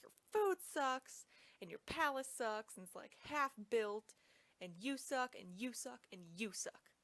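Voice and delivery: hammed-up snooty wife complaining; mock snooty insults. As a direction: sneer at everything, then peter out. Murray's wife insulting the food.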